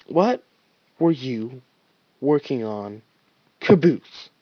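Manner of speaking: through gritted teeth. Acted. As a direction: hold back anger through teeth. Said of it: "through gritted teeth".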